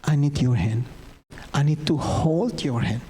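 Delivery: slow, spaced-out prayerful plea; gentle childlike plea. Pretend. Preacher pleading to God as his child did, gentle plea. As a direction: plead simply, pausing between short phrases. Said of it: "Seperti anak saya".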